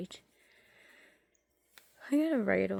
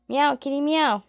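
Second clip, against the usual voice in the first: coaxing call; 6 semitones higher, 12 dB louder than usual. Real, not acted. Coaxing mute cat to meow.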